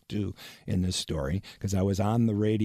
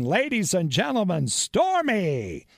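higher mock announcer voice; Mark Roberts announcing; 11 semitones higher, slower than usual. Radio man mimics Mark Roberts announcing Stormy again, higher and grand. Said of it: "Mark again".

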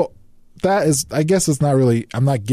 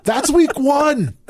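slow, high, dry delivery; deadpan punchline; 13 semitones higher, slower than usual. Real, not acted. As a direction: land the punchline slowly. Punchline after poop story.

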